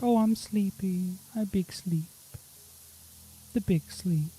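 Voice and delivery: breathy, high drowsy whisper; sleepy whisper. Pretend. Gamer mocking idle Haley as sleepy, whispered drowsy voice. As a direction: voice the lazy friend dozing off. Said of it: "it's like".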